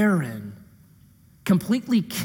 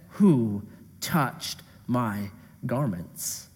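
quiet searching question; 7 semitones lower, 5 dB quieter, much slower than usual. Acted. Jesus asking in the crowd.

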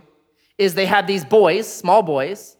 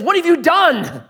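higher, mock outraged protest; angry Jacob; 11 semitones higher, slower than usual. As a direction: storm in and confront Laban, lightly acted. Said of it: "storms into Laban and says".

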